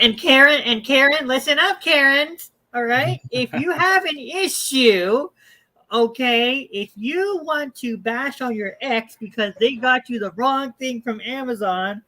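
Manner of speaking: loud, emphatic call-out to complainers; mock lecture. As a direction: sound off at them in mock exasperation. Mock scolding address to Karens.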